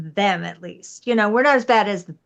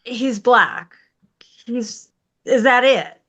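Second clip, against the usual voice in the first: incredulous retort; slower than usual. Retold or imitated. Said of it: "And I'm like".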